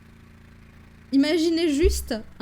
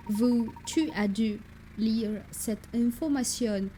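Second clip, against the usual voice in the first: put-on slow English-accented French turning German; English accent gone German; 3 dB quieter, slower than usual. Professor questions his assistant, failed English accent sounding German. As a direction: drag it out in a bad English accent. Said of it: "mon accent anglais qui vire vers l'allemand".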